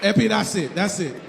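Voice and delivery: imitated Haitian accent, curt dismissal. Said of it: "That's what he said".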